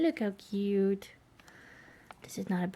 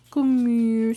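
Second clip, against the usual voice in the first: firm call; 10 dB louder than usual. Real, not acted. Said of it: "repeated call, firmer".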